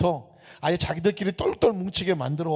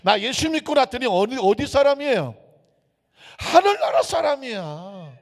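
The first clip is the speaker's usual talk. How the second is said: rising exclamation; 8 semitones higher, 5 dB louder than usual. Real, not acted. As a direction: pitch climbing high and loud. Preacher builds to a climax.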